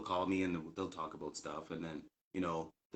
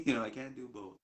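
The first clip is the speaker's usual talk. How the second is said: higher-pitched words after a laugh; laughing protest; 4 semitones higher than usual. Real, not acted. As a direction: chuckle through the complaint. Repeats reply while laughing.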